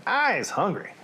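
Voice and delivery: put-on lightly booming giant with southern accent. Hungry giant to captive Sophie, southern accent. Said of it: "this is how the southern accent is gonna happen".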